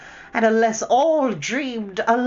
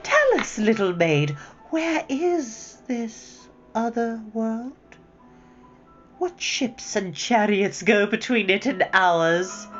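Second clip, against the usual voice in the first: high, slow, playful sweetness; lilting witch teasing the little maid; mocking witch; 8 semitones higher than usual. A narrator's reading. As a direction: play along with the silly game. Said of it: "said the witch".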